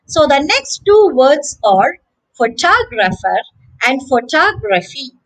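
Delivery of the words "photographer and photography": pho-TOG-rapher, pho-TOG-raphy; long TOG, short vowels around it in "photographer", "photography"; second-syllable stress. Shown as a demonstration. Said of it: "the stress is on the second syllable".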